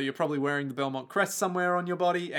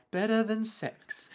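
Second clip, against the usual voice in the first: mocking repeat; 6 semitones higher, 4 dB quieter, slower than usual. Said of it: "is all like".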